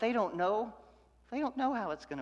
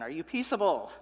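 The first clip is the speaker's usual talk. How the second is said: western townsman; 6 dB louder than usual. Retold or imitated. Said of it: "it's almost like a Western".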